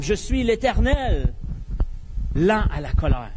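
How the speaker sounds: slow solemn proclamation; proclaiming God. Acted. God proclaims his name to Moses, slow and solemn. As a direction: proclaim it slowly, with weight. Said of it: "il proclame".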